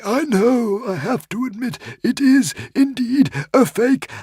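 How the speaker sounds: tiny frantic squeaking creature; squeaky little dragon. A narrator's reading. Woden's Fang admits.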